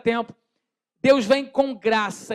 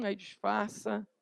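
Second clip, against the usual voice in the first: hushed pretending innocence; 14 dB quieter, slower than usual. Pretending nothing happened.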